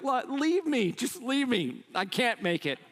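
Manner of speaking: high, whining plea to be left behind; whiny tired kid. Retold or imitated. Tired kids begging to stop.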